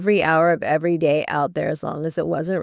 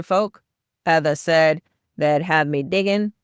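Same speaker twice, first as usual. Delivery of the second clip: a self-mocking attempt at a Yorkshire boy's voice; Yorkshire accent. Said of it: "in his best Yorkshire accent".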